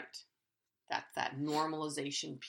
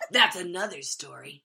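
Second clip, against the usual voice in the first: laughing; 8 dB louder than usual. Real, not acted. Laughing remark.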